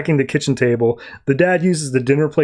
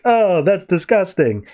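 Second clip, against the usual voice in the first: drawn-out, higher mock disgust; retold disgust; 4 semitones higher, slower than usual. Reacting to them throwing up together, disgusted. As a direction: stretch it out as if grossed out.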